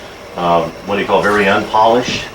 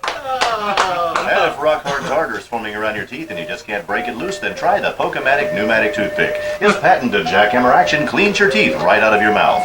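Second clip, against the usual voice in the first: mock ad read. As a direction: parody commercial announcer. Mock toothpick commercial.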